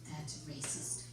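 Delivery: hushed, low retold whisper; very soft, low mock whisper; imitated whisper. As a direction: whisper it like a disapproving daughter. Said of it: "She whispers".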